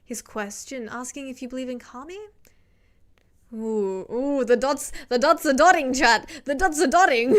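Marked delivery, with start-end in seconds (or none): 3.5-7.3 loud excited chatter. Real, not acted. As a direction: get hyped at the chat. Excited at chat typing.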